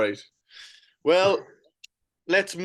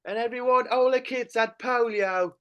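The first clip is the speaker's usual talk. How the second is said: put-on nostalgic old man, pitched up; old-timer voice; 6 semitones higher than usual. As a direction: reminisce like a wistful grandpa.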